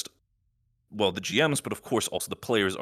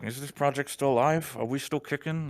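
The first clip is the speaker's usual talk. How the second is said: lightly voiced inner doubter, pitched up; imagined doubting voice; 5 semitones higher than usual. Host imitating the doubt in somebody's head, lightly voiced questioner. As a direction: mimic a worried questioner a little higher. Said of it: "the voice in the back of somebody's head is like".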